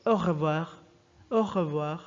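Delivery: "au revoir" with R vibrating in the throat; guttural R in "revoir", as a model to copy; throaty French R. Shown as a demonstration. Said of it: "vibrates in the throat".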